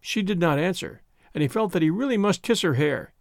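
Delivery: ordinary delivery, nothing marked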